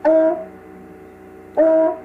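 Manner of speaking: O with rounded lips, between o and u. Shown as a demonstration. Teacher models Chinese o for the class. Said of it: "giữa O và U".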